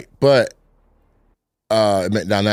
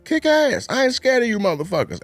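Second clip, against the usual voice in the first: Bernie Mac impression; 14 semitones higher than usual. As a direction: belt it like a brash comic. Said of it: "where he was like".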